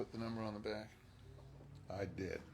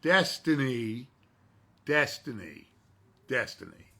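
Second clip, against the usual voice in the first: calling a name; 3 semitones higher, 11 dB louder than usual. Acted. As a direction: ring the name out. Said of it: "say my name one more time".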